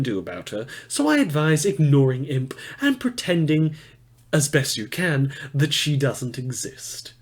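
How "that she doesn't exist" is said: whispered aside. Acted. Advising listeners to ignore Imp.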